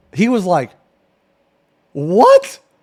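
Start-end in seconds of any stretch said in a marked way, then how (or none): none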